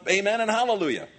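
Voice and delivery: high, forceful proclamation; shouted praise. Acted. Preacher repeating the elders' praise, shouting. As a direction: call it out to rouse worshippers. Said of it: "I'm doing the shouting right now".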